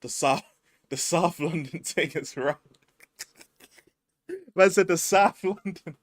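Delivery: mock South London accent, laughing. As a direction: ham up the accent while laughing. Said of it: "How do you deal with an accent?".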